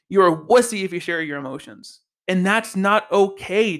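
earnest, emphatic insistence; passionate. Real, not acted. Host condemning the shaming of men's emotions, passionately. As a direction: drive the key words home with feeling. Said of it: "I'm very passionate about this".

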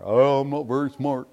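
lightly voiced self-deprecating whine; a hint of faked helplessness; mock dumb excuse. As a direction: play dumb, half-hearted. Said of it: "play off how dumb they are".

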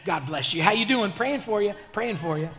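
pious greetings rattled off in a lightly put-on voice; churchy Sunday persona. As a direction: mimic an overly holy churchgoer working the lobby. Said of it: "You sound a lot different than Sunday you".

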